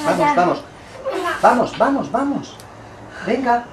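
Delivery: high urgent push chant. Real, not acted. Midwife coaching the final push.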